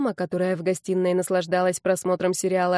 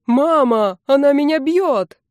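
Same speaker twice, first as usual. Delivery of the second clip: loud, high mock complaint, slowed; mock bawling; 6 semitones higher, 7 dB louder, slower than usual. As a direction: whine to mom like a tattling kid. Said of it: "тоже завопил брат".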